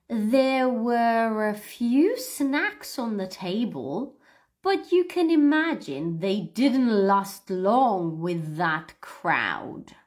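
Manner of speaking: slow, careful read-aloud for repeating; slow model reading. Shown as a demonstration. Teacher reading a sentence slowly for the class to repeat. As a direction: read it slowly so learners can copy. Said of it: "one more time".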